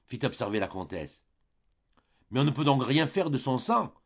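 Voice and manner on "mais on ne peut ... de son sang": put-on higher, louder despairing cry of an old man; desperate cry. A narrator's reading. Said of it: "cria le vieillard désespéré".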